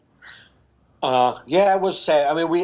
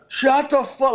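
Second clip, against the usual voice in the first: mock irritated ex; 11 semitones higher, slower than usual. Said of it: "she'd be like".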